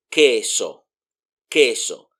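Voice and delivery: queso as "KE-so"; queso with a plain k, no w glide; silent U. Shown as a demonstration. Teacher shows learners queso with the U mute, "keso". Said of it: "it's like the U is not there".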